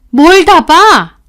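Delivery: high, loud, slow teacher voice; startled teacher. Retold or imitated. Teacher caught out, questioning the student in a high alarmed voice. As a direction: drag out the shocked question.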